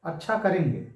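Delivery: "अच्छा" first, even and falling; settled, willing yes; accepting. Shown as a demonstration. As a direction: agree simply with "अच्छा" up front. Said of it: "स्वीकृत हो गया".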